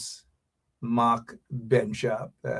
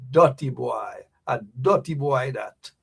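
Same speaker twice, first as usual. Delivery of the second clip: with attitude. Shown as a demonstration. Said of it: "You gotta say it with an attitude".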